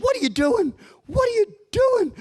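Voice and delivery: high, loud alarmed shout; wife's alarmed shout. Retold or imitated. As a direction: shout in panic at husband. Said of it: "my wife said".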